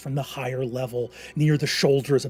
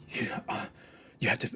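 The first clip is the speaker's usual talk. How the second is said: urgent, stammering plea, louder on "help Murray"; panicked pleading; 5 dB louder than usual. Acted. Condemned man begging his brother in his mind, panicked plea. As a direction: beg your brother for help in a rush.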